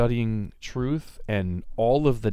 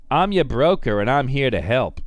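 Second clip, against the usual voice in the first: smooth salesman pitch, louder; broker voice; 5 dB louder than usual. Retold or imitated. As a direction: play the slick friendly broker. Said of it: "I don't know why I have to give them that voice".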